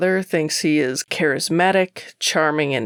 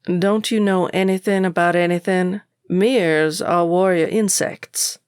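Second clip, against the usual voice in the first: exasperated; 3 semitones higher than usual. Acted. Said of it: "He rolls his eyes".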